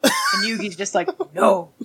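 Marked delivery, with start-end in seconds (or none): 1.3-1.7 high, loud no; loud refusal. Pretend. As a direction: shout the no up high. Yugi refusing in role play.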